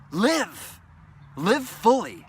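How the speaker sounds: high, loud urging; urgent cry. Acted. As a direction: call it out like a rallying cry. Urgent exhortation.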